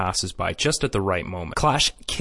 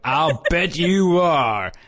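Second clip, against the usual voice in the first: Rio; 6 semitones higher, 3 dB louder than usual. Retold or imitated. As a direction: imitate a jealous boyfriend, hammed up. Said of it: "Rio comes up and he's like".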